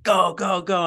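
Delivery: urging on. Retold or imitated. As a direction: imitate a runner urging his partner on. Acting runner urging partner on.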